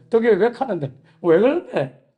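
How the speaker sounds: light Gyeongsang dialect, said again as the pastor; the pastor repeats his question in a mild Gyeongsang dialect. Retold or imitated. 경상도 사투리로 가볍게 흉내 낸 목사님. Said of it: "경상도 말로".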